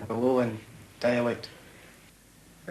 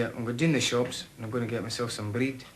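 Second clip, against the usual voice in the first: Glasgow accent. Shown as a demonstration. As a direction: say it in his adopted Glasgow accent. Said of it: "if I was talking in my Argyll dialect, I'd say".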